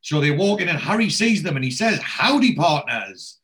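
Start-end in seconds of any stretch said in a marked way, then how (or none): 2.0-3.4 mock cowboy greeting. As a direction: belt out howdy like a saloon cowboy. Harry greets them cowboy style.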